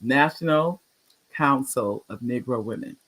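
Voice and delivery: measured repeat with a clear break; slow and deliberate. Shown as a demonstration. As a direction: pause after National, then the rest carefully. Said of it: "I'm gonna say it slow".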